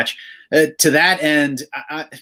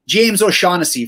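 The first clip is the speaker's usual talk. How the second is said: put-on Irish accent; 5 semitones higher, 3 dB louder than usual. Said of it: "Was that supposed to be your Irish accent?".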